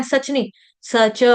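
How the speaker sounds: सच said slowly as two separate syllables स and च; स and च kept apart. Shown as a demonstration. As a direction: split सच into its two sounds, unhurried. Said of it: "इसको जल्दी जल्दी सच नहीं बोलेंगे".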